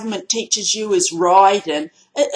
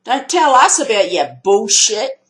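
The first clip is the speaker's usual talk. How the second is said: imagined angry retort; 3 semitones higher, 5 dB louder than usual. Pretend. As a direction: bark it down the phone. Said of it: "I would have said".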